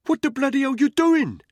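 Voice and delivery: high-pitched, furious shout; angry challenge. A narrator's reading. Cab controller catching a snooper in his office, angry shout. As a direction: yell in outrage at an intruder. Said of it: "his face angry".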